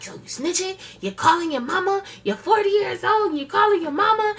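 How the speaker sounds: high, rising mock scolding; mocking mother. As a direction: needle him like a scornful mom. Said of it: "she was like".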